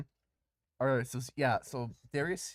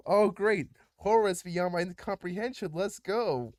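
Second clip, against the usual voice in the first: louder, higher mock cheer; mock enthusiasm; 4 semitones higher, 5 dB louder than usual. Game master greeting horrors beyond comprehension, mock enthusiasm. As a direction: hype up the horrors with mock relish.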